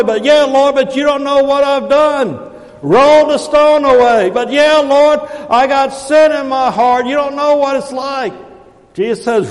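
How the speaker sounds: high, loud, ringing sermon delivery; full-force preaching. Acted. Preacher urging people to let God in, full-force preaching. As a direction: preach it out hard, pitch held high.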